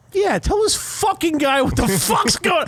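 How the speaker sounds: high mock shout as the wife; imitating wife. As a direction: egg him on like the fired-up wife. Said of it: "She's kinda just sitting there like".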